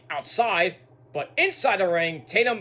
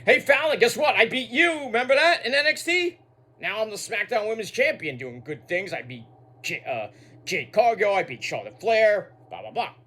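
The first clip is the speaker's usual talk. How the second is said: mock bragging champion; 2 semitones higher than usual. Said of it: "then she's like".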